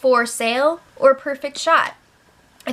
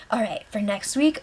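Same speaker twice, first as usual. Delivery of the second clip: whispering; 5 dB quieter than usual. Retold or imitated. Chrissy plotting quietly with Jason.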